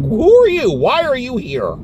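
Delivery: mock confusion at a stranger; incredulous who-are-you; baffled. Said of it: "it was like".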